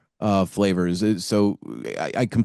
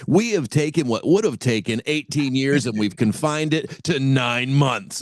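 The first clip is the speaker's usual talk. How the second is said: upbeat announcer pitch, raised; infomercial voice; 5 semitones higher than usual. Retold or imitated. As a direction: sell it like a late-night ad. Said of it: "the quick infomercial voice".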